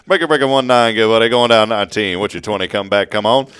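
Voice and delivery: trucker CB call voice; CB radio talk. Retold or imitated. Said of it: "I said".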